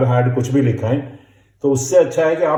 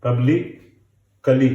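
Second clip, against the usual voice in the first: पब्लिकली said slowly, each syllable pub-lik-li spelled out; slower than usual. Shown as a demonstration. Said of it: "पब्लिक हम जानते हैं पी और बी होता है".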